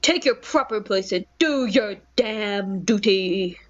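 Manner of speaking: slow commanding order like an action star; a hint of Vin Diesel. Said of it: "Vin Diesel's voice".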